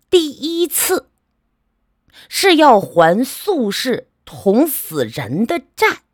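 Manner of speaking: slow, grave fortune-telling uncle; lightly voiced, drawn-out solemn prophecy. Uncle slowly tells the nephew his fated debts, grave.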